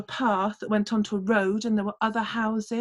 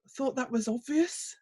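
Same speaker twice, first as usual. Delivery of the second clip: dry farmer; 4 semitones higher, 4 dB quieter than usual. Acted. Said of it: "said the farmer".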